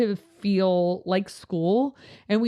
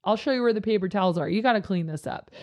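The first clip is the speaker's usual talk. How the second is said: positive correction; 3 semitones higher, faster than usual. Shown as a demonstration. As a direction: gently call out a kid, keeping it upbeat. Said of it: "always lead with positivity".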